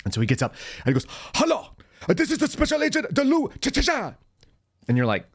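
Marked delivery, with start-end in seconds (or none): 1.3-4.1 very high, hammed-up Chinese accent impression; thick Chinese accent. Agent retelling his training partner's call in mock Chinese accent. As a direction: squeak it out in an exaggerated Chinese accent. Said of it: "he had a really thick Chinese accent".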